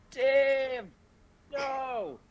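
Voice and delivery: high-pitched, drawn-out cry of alarm; acted yell. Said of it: "I'll yell".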